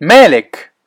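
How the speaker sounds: calling out. Acted. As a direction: call his name across the hill. Calling out to a friend.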